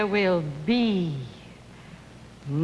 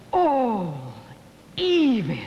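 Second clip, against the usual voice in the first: crying; much slower than usual. Acted. Woman breaks down before the brute.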